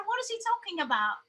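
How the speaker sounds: mock British accent, puzzled question. Mother to her child about the clerk, mock British accent. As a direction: put on British for a baffled aside. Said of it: "we kept talking British".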